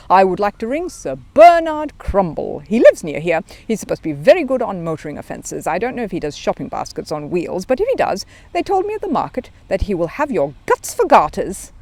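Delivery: put-on proud young bear with a threat; little bear, confident. Paddington voice, confident.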